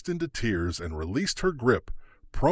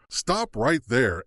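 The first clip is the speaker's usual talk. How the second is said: slow, louder command; bellow; 4 dB louder, slower than usual. Acted. The clerk bellows at the judge, slow louder command. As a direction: bellow it slowly, a threat. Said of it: "Emily bellowed".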